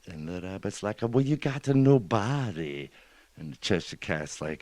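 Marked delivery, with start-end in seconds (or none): 1.0-2.9 lightly voiced baffled rabbit, pitched high; puzzled rabbit. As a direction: raise the pitch in mild disbelief. Rabbit puzzled at bodiless cat.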